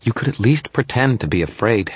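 put-on high, sulky little-kid voice; pouting, pitched high; Toot's sulk. A narrator's reading. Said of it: "Toot sulked".

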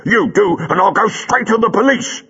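high, rough working-class London voice, loud and demanding; a burly cabbie squaring up; cab driver Buller. A narrator's reading. Buller the cab driver to Jago, a high, loud demanding voice.

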